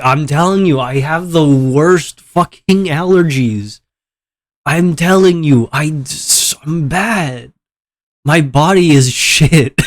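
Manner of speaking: exasperated allergy rant; slow emphatic rant. Real, not acted. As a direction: complain big and drawn-out. Ranting about allergies and seasons.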